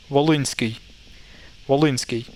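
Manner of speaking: Volinsky said carefully with a softened s; correct pronunciation. Shown as a demonstration. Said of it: "proper correct pronunciation is".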